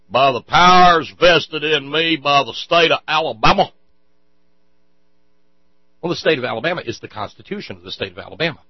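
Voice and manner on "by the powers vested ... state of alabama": higher and louder, pompous mock officiant; imitating Roy Moore. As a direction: ham up a self-important judge. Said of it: "I'm sure he's".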